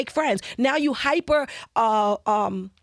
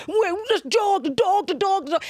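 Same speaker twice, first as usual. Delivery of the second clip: high, pointed mock scolding at the dog; acting out pointing at the dog to shame the owner; mock annoyed; 7 semitones higher than usual. She mimics scolding the dog to shame owners, high and pointed.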